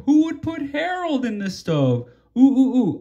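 eager guess. Acted. An eager friend guessing who put Harold in the stove. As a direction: rattle it off eager to answer.

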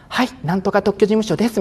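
high polite receptionist greeting; phone voice. Shown as a demonstration. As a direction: answer the office phone in a smart, polite voice. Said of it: "急によそ行きの声になる人いるじゃないですか".

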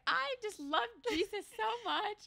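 high, slow, gushing imitation; starry-eyed believer. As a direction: gush like a smitten devotee. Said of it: "you're just like".

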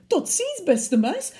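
high, rushed snake farewell; hasty snake goodbye. Acted. Snake hurries off from the mouse, high and hasty. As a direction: get out the goodbye and flee. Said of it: "zei hij".

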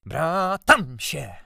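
loud, high, drawn-out squeal; hateful squeal. A narrator's reading. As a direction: stretch it into a furious squeal. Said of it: "Pisk nienawistny, rozżarty".

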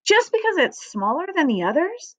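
put-on little girl's high-pitched outrage; shrieked protest. A narrator's reading. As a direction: cry out in disbelief, pitch soaring. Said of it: "shrieked Fern".

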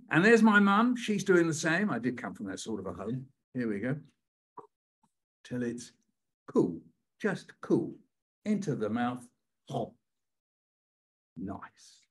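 put-on reading aloud to a crowd of kids; poem performance. Shown as a demonstration. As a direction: perform the brother's turn in the poem. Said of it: "can you say nice".

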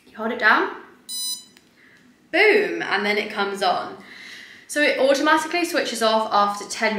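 speaking behind rigid mask; through a face mask. Real, not acted. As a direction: mask covering face while talking. Seen 1: Rigid LED mask worn over face, mouth cutout, throughout the words.

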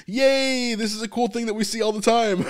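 high-pitched, hammed-up delight; playful imitation of a happy onlooker; mock happy cheer. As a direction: cheer in a light, sing-song mock glee. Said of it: "It's not just happy".

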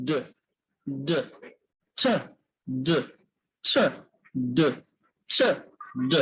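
ছ breathed out unvoiced, then ড with voice, alternating slowly; paired sound demo. Shown as a demonstration. Teacher drilling the ছ and ড pair for the class. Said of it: "vocal কর্ডটা কেঁপে উঠবে".

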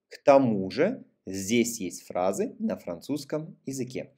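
flowing teacher read with short breaks. Shown as a demonstration. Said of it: "voy a leer más rápido".

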